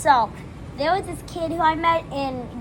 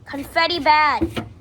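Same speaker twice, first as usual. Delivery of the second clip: caveman voice; 4 semitones higher, 4 dB louder, slower than usual. Pretend. Repeated slower caveman.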